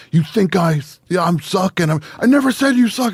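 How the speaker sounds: high, sarcastic jabbing voice; hammed-up high-pitched accusing tone; mock indignant. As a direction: twist the words back in mock outrage. Imitating Jordan's twisted reply.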